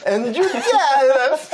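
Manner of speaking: "Andrew Calof" drawn out slow and high, parroting the synthesizer; mimicking computer pronunciation. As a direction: overdo the English vowels of "Andrew Calof" like the computer. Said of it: "så kommer datorn berätta". ("Andrew Calof" överdrivet utdraget, som talsyntesen)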